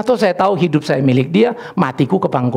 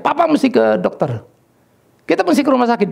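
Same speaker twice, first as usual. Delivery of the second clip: higher-pitched mild mock yell; retold frantic cry; 8 semitones higher than usual. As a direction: imitate an alarmed daughter, no real shouting. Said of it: "Keisha dia teriak". (menirukan teriakan anak yang panik)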